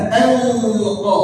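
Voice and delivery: "Anqa" with a clear hamzah, not ain; teacher's demonstration of hamzah in "Anqa"; hamzah articulation. Shown as a demonstration. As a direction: draw out "Anqa", then a glottal stop. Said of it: "bukan ain, tapi hamzah".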